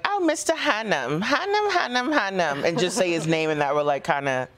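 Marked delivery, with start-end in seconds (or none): 0.0-2.6 Boston accent. Shown as a demonstration. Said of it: "I would be like".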